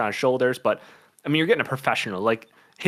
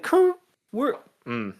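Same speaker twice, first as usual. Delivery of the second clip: whiny voice; 12 semitones higher, slower than usual. Retold or imitated. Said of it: "I wanna give them the whiny voice".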